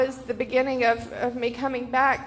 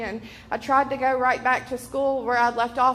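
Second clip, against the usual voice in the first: normal talking voice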